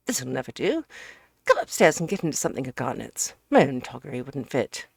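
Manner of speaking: hearty, brisk host voice; a hint of a bluff friend taking charge; bustling Ukridge. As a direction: hurry him along cheerfully. Ukridge fusses over the professor.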